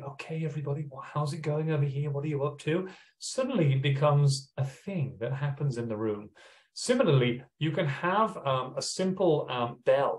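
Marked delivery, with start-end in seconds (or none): 0.0-2.9 soft, hushed, roaming half-whisper. Speaker demonstrating walking around a class, half-whispering. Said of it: "walk around the class whispering".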